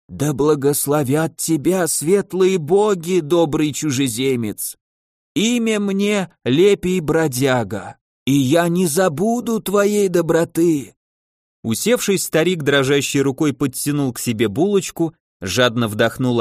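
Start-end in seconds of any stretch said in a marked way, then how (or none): 0.1-11.0 put-on slow, frail old beggar voice; very old man. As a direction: speak slowly like a tired old wanderer.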